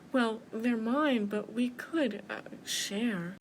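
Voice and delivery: mildly nervous, hesitant mouse; nervous quiver. Acted. Mouse offering bear a share, nervous. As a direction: hesitate before daring to suggest it. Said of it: "nervously she quivered".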